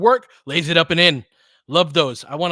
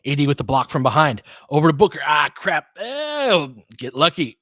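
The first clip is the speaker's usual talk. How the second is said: excited play-by-play; 3 semitones higher, 7 dB louder than usual. Real, not acted. Live call of a block and fast break.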